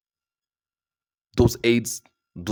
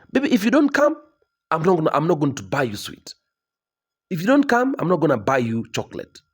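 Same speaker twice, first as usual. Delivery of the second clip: higher, sing-song mild warning; mock threat to child; 5 semitones higher than usual. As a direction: tease the kid with losing chocolate. Parent threatening child, no sweets.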